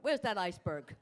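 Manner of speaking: usual speaking voice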